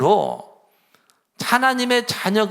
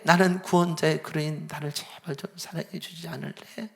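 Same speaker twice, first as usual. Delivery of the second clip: pleading gently; 3 dB louder than usual. Retold or imitated. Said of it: "그렇게 말씀하실 거예요".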